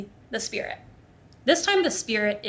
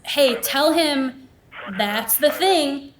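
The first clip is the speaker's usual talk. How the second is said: slow, slightly raised spirit voice, word by word; spirit's broken phrasing; 4 semitones higher, 4 dB louder, much slower than usual. Retold or imitated. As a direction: lightly imitate a cryptic spirit message, drawn out. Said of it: "broken, like, like, not common vernacular".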